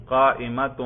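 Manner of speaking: قائمۃ with a clear final "-un"; nominative ending -tun. Shown as a demonstration. Teacher demonstrates raf' to students, قائمۃ ending in -tun. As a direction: say قائمۃ as "qaa-imatun". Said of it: "کر کے دکھائیے".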